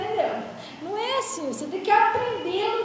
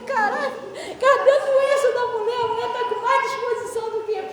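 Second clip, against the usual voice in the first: amazed outburst; 5 semitones higher, 5 dB louder than usual. Retold or imitated. Amazed at her quick recovery.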